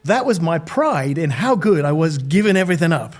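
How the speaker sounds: put-on American storyteller; lightly acted American accent. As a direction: imitate an American stranger confessing. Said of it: "this is my American accent".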